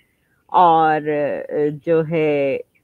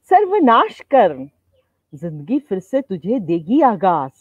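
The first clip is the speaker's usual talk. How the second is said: poem recitation. Acted. Poet to her live audience, reciting her festival verse. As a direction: recite with swooping pitch and measured pauses.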